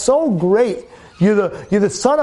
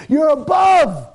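drawn out, slow, punched final above; preacher's drawn-out final word; slow emphatic climax; much slower than usual. Acted. Climax of repeated you're above.

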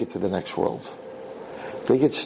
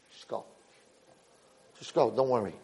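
soft reassurance; 2 semitones lower, 9 dB quieter than usual. Acted. Father calmly dismisses youngest son.

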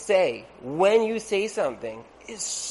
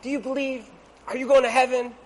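excited preacher; 7 semitones higher, 4 dB louder than usual. Retold or imitated. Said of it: "he's like".

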